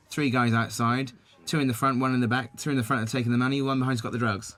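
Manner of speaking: put-on a light Somerset accent, retelling the officer. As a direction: imitate the officer in mild Somerset. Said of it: "I'm doing a Somerset accent".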